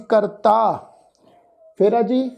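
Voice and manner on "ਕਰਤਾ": ਕਰਤਾ with a long final aa; pronunciation demo. Shown as a demonstration. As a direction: model ਕਰਤਾ, holding the ending. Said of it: "ਫਿਰ ਸ਼ਬਦ ਦਾ ਉਚਾਰਨ ਆ ਜੀ". (ਕਰਤਾ ਦਾ ਲਮਕਵਾਂ ਉਚਾਰਨ)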